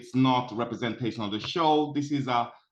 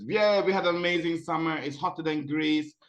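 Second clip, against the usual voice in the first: higher, mildly excited quote; mock celebrating; 4 semitones higher than usual. Host voices people celebrating a hot summer, mock celebrating. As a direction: imitate people cheering the heat. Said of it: "everybody just celebrated and said".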